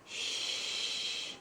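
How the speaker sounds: soft shushing; quiet shh. Shown as a demonstration. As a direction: hush a friend with a shh. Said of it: "tell the grown-up to shush".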